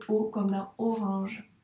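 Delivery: "O" lengthened, echoed in "orange"; sound demonstration. Shown as a demonstration. Teacher answers which letter is missing, sounded out. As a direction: draw out the "O" alone and in "orange", slowly. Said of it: "il me manque quelle lettre?".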